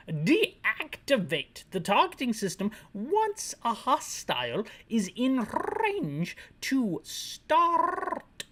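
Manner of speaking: put-on very slow, high, rolled-R foreign accent; wandering fake British, stretched words; failed British accent. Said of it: "this guy isn't British anymore".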